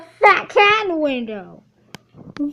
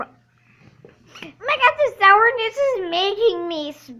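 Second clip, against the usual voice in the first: eating sour candy. Real, not acted. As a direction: mouth puckered from sour candy. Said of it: "it's making my voice sound weird".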